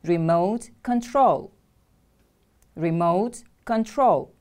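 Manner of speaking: "Remote" stressed on MOTE, said for repetition; stress on second syllable. Shown as a demonstration. Teacher has class repeat after her, second-syllable stress in "Remote". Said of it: "The stress is on the second syllable".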